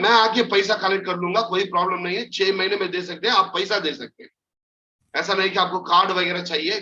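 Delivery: fast, friendly, familiar sales patter; chatty pitch to a woman. Shown as a demonstration. Salesman coaxing a housewife in Hindi, fast and chummy. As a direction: sweet-talk the housewife with quick chatter. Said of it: "The woman".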